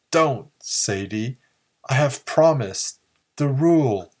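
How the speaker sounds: pained cry. A narrator's reading. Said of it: "pain in his voice as he cried".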